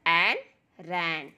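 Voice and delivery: drawn-out blending into मैन; slow phonics blend. Shown as a demonstration. Teacher blending sounds slowly for children. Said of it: "आर का sound र".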